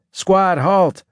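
loud, high-pitched military order; urgent squad leader's shout; shouted command. A narrator's reading. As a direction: shout it to stop a squad in its tracks. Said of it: "I shouted".

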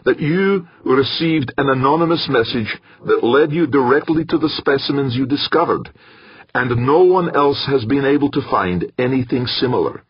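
high, commanding, carrying voice; loud enough to silence others. A narrator's reading. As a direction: take the floor and silence the table. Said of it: "in a voice loud enough to silence the others".

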